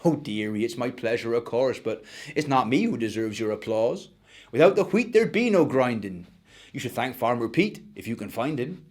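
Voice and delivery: a gentle granny type; old miller woman. Acted.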